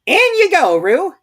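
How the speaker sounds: very high, loud sudden call. A narrator's reading. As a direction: shout the command out loud. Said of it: "said in a loud voice".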